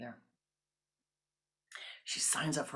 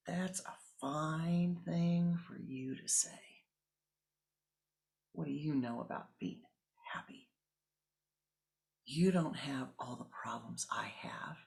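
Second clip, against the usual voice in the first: slow, raging thoughts in a whisper; a woman fuming in her head at the yogi; mock inner rage. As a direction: seethe silently at the teacher. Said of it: "Her mind started screaming, raging".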